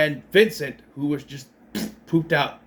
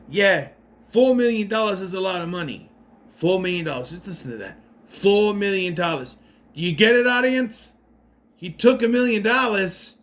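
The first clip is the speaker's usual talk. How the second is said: a hint of DeVito hammering the number home; Danny DeVito impression; 3 semitones higher than usual. Movie recapper mimics DeVito stressing the money, lightly voiced. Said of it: "I'm still doing a Danny DeVito accent".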